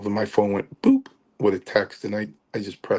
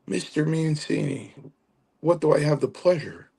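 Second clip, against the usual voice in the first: higher-pitched mock-formal greeting; Chief; 7 semitones higher than usual. Chief answering the teller's call, imitated in a higher voice. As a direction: imitate an older friend's ceremonious phone hello. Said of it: "He goes".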